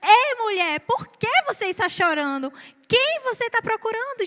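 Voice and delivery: fuller voice, rising on quem; Jesus as read. Shown as a demonstration. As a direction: ask it openly, a touch puzzled. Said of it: "eu percebi que Jesus chegou pra ela e falou".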